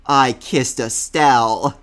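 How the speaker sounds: mock serious. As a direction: deliver it with a straight face, slowly. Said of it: "he looks at him all serious".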